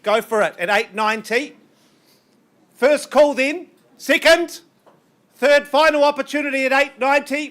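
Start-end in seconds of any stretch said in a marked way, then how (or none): 2.8-7.5 auctioneer's final call. Real, not acted. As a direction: ring out the last calls to the room. Auctioneer calling final bids.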